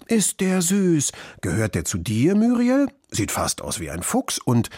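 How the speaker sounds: put-on children's eager questions, rising high in places; excited calls. A narrator's reading. Classmates asking about the little fox, calling out excitedly. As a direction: call out like one curious child after another. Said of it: "riefen alle durcheinander".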